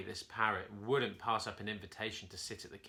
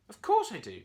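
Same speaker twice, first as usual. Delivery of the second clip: annoyed reply; 8 semitones higher, 10 dB louder than usual. A narrator's reading. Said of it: "Curly replied".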